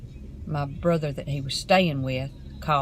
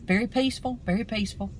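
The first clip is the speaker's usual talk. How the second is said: choked up; 5 semitones higher, faster than usual. Real, not acted. Recounting her brother's death, near tears.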